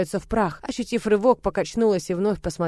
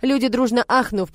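ordinary delivery, nothing marked

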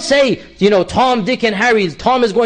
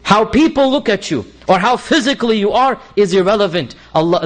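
ordinary talk, nothing marked

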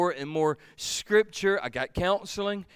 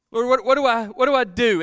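pleading prayer; 6 semitones higher, 10 dB louder than usual. Retold or imitated. Desperate prayer retold.

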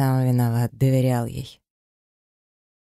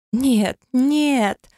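пронзительно высоко и громко; жена визжит, цепляясь за мужа; визг сиреной; 12 semitones higher, 4 dB louder than usual. A narrator's reading. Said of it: "заверещала она сиреной". (визг как сирена)

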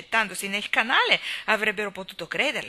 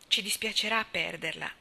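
a touch of wistful tenderness; a bit sad and sentimental. Acted. Anna telling Cornelia she'll miss her, mildly wistful. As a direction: let a little sadness creep into the goodbye. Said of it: "sentirsi un po' triste e sentimentale".

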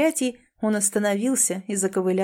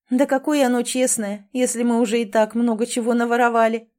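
laughing; 3 semitones higher, 4 dB louder than usual. Acted. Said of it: "смеялась Элизабет".

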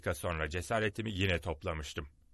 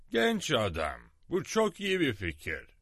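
pleasantly surprised; 3 semitones higher, 3 dB louder than usual. A narrator's reading. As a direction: start level, then lift it in surprise. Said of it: "Hatta şaşırarak". (şaşırarak, giderek yükselen tonla)

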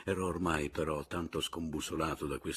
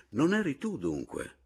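raised, astonished question; exclaiming; 6 semitones higher than usual. A narrator's reading. Berto learns his brother never died, exclaiming. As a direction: exclaim it, pitch lifted. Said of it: "esclamò Berto".

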